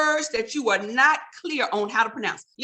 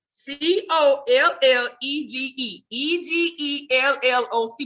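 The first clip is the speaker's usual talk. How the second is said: slow spelling; slower than usual. Shown as a demonstration. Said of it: "but you gotta say it fast".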